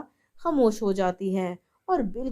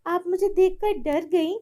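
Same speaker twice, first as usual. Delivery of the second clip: high, pointed taunting tone; mocking daughter-in-law; 7 semitones higher than usual. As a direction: taunt the frightened mother-in-law.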